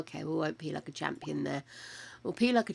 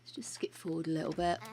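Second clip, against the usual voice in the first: whispering; 2 semitones lower, 6 dB quieter, faster than usual. Real, not acted. Muttered gameplay aside.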